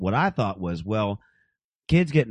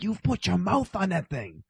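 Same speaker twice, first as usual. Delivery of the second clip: shocked disbelief; 8 semitones higher, 4 dB quieter than usual. Retold or imitated. Retold shocked kid voice.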